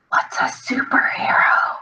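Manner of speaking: slow, puzzled whisper; hushed, secret question; confidential whisper. Acted. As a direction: whisper it aside to a friend. Grayson leans over to ask Echo.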